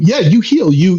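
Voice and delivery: ordinary talk, nothing marked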